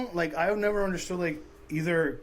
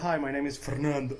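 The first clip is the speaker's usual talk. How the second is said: mock Spanish name. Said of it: "it's like".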